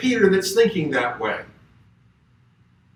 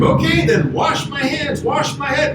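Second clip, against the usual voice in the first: higher, excited overcorrecting plea; eager Peter; 7 semitones higher than usual. Retold or imitated. Peter begging Jesus to wash everything, higher and eager. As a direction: Peter gushing, all in at once. Peter goes to opposite extreme.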